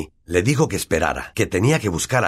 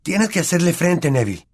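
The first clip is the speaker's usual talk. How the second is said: Ron's voice; 10 semitones higher than usual. Acted. Ron encourages Neville.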